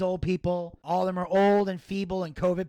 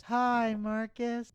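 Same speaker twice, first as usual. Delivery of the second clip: smiling greeting; 5 semitones higher, much slower than usual. Retold or imitated. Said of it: "She smiles and she goes".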